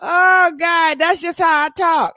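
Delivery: laughing it off; laughing while explaining herself. Real, not acted. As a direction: giggle through the words. Laughing after reading comment.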